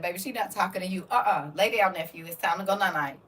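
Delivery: low, soft mumbled comfort; sleepy son. Retold or imitated. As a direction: mumble it half asleep. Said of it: "my son just sit up in the bed and said".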